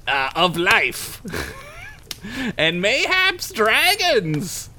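lightly voiced old wizard, archaic; a hint of a grand storybook wizard. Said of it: "the best wizard voice".

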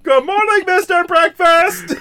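hammed-up Pee-wee cheer. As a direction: chirp it like Pee-wee at breakfast. Quoting Pee-wee's breakfast scene.

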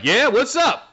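high, breezy and casual; casual reply. Retold or imitated. Futon answers his master casually, high and breezy. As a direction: toss it off lightly. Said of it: "normal talking voice".

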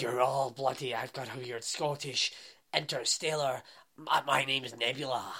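mock interstellar Scottish accent; mocking Nebula's accent. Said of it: "Her accent's ridiculous".

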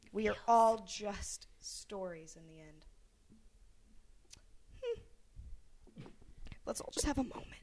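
sentimental. Pretend. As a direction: linger on each word tenderly. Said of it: "too touchy-feely with our emotions".

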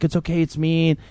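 soft, hushed comfort; calm a scared child quietly; hushed reassurance. Retold or imitated. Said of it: "and I'm like".

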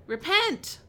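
high-pitched imitation of yelling out; mock yell. John yelling out in the wilderness, high mock yell. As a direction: cry it out high, without much volume. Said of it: "yelling out".

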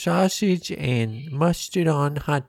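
Chicago accent impression; put-on Chicago local; Midwest accent. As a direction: talk like a sausage-loving Chicagoan. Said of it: "do a Midwest accent".

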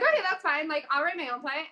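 upbeat retake. Shown as a demonstration. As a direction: brush off the rejection cheerfully. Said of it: "I'm like".

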